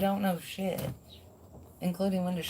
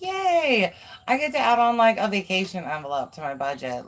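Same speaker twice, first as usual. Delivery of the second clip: giddy, pitched-up delight; acted excitement; 4 dB louder than usual. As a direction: squeal a happy yay for the listener. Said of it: "you're excited about the financial change".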